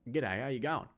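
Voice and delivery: broad ocker Australian, words rolled together lazily; ocker Australian accent. Shown as a demonstration. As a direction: slur the G'day like a broad ocker Aussie. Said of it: "very just rolled through the mouth".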